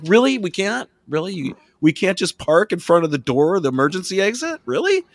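mock amazed, high; sarcastic disbelief. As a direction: speaker mocking the guard. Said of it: "I was like".

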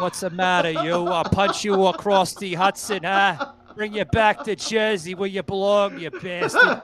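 a light, hammed-up New Jersey Italian mob accent; joking New York Italian tough guy, laughing at the end; bad Italian impersonation. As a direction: play a mock Jersey mobster threatening a friend. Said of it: "That's a bad impersonation of Italian".

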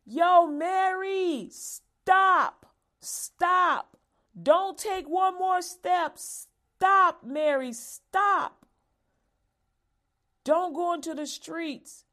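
high, loud, desperate call to stop; urgent shouted warning. Retold or imitated. God calling Mary back from the street, high loud urgent shout. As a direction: yell STOP before she steps into traffic. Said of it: "He's saying".

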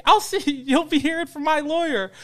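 high-pitched mock legal threat; mocked huffy lady. Lady driving away threatening lawyers, mocked huffy lady. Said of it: "she's like".

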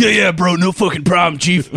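laid-back bro voice. Retold or imitated. Friend imitating the cigarette guy's reply. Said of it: "He said it just like that".

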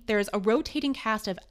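put-on a light, wobbly stab at an Irish accent; hint at an Irish lilt, half-hearted; mock Irish accent. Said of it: "I don't know what accent this is".

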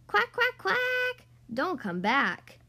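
high, loud quacks, then a slow drawn-out don't come back; quacked. Acted. Duckyard ducks chasing off the ugly duckling, high quacking then slow warning. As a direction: shoo him away like a mean duck. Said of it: "they quacked".

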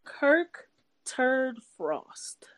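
slow mocking whisper; whispered insult. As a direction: breathe the nickname out slowly.

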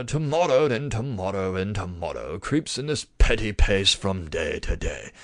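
Shakespearean stage British, slowing and sinking low at the close; haughty British accent. Shown as a demonstration. Lecturer demonstrates popular idea of Shakespeare's speech, haughty British accent. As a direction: declaim it in a put-on British theatre accent. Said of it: "some type of accent like that".

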